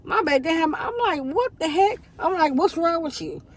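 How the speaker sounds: pitched well up, startled and worried; alarmed surprise. Retold or imitated. Mother alarmed at her crying daughter, high startled questions. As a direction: react like a mom who just saw her child crying.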